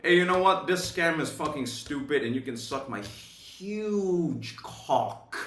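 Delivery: calling out the MLM host on a call, mock defiant; mock telling off. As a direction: tell the scammer off, hammed up. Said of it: "speak up, right, on that call and say".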